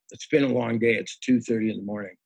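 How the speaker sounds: tired, rough late-night voice; hoarse from a long day. Real, not acted. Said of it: "Excuse my, uh, rough voice".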